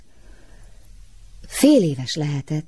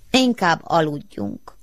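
slow, grumbling bear character; drawn-out, drowsy grumble; sleepy mumble; 2 semitones higher, slower than usual. A narrator's reading. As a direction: mumble it slowly, ready to sleep. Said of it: "dörmögte Maci".

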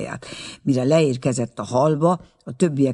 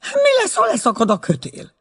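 much higher, panicky question; frightened question; 4 dB louder than usual. A narrator's reading. Aunt asking the guide in terror, high panicky voice. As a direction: shriek out the fear of the rope snapping. Terrified aunt before the ride.

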